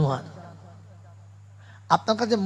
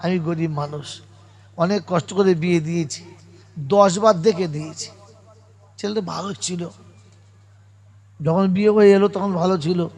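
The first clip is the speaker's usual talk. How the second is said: calm persuading; 3 semitones lower than usual. Retold or imitated. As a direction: gently talk her round. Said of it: "খুব ঠান্ডা মাথায় বোঝাচ্ছে". (শান্ত মাথায় বুঝিয়ে বলা)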